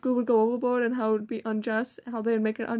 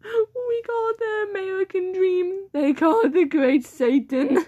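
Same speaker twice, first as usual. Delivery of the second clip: slow, louder proclamation; mock grandiose; 6 semitones higher, 6 dB louder than usual. Real, not acted. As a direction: announce it like a slogan.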